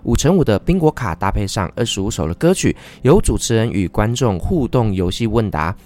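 upbeat radio ad voice; ad read. Acted. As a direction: sell the concert like a spot. Concert ad read.

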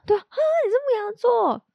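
imitating a high, startled reaction; mock surprise. Guest mimics people's astonishment at her sign, mock surprised. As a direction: play the astonished listener. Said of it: "很多人会很讶异".

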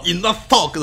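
put-on deadpan Arnold in Austrian accent. Host quoting Arnold's line in an Austrian accent. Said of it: "奥地利口音超重的英文".

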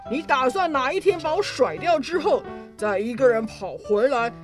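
hard, threatening demand; angry. Acted. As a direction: squeeze the confession out. Duke throttling king.

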